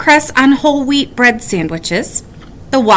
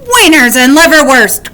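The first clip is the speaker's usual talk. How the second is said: louder gleeful wolf cry; delighted wolf; 4 semitones higher, 5 dB louder than usual. A narrator's reading. Wolf delighted by flying sausages. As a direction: relish the sausages. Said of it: "cried the wolf".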